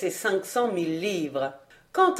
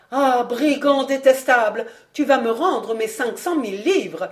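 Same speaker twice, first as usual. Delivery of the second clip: put-on angry old financier; 4 semitones higher than usual. Béchameil shouting at the thief.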